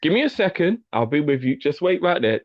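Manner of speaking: polite customer-service voice, a touch formal; work voice. Shown as a demonstration. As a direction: put on the office manner for a customer. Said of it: "That's how I talk. I put my work voice on".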